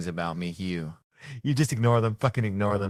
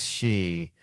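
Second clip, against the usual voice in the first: vocal imitation of a shotgun; imitated shotgun noise; 2 semitones lower than usual. Comic mimicking the shotgun he wanted, imitated noise. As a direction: make the noise of the gun he expected. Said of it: "the one that goes".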